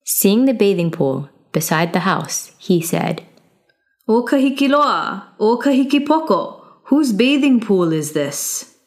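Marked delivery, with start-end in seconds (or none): 4.1-8.8 higher, ringing call to the guards; young hero calling out. Acted. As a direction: call them out, bold and pointed. Youth calls to the guards.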